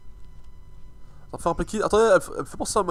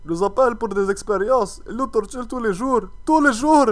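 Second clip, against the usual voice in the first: lightly hammed Russian accent, a bit higher; russian accent in french; 3 semitones higher than usual. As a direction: read the letter in a mock Russian accent. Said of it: "tu sais faire l'accent russe". (accent russe en français)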